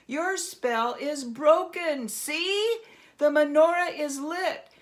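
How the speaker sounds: triumphant Herschel. Acted. Herschel triumphantly telling the goblin his spell is broken. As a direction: savor the victory.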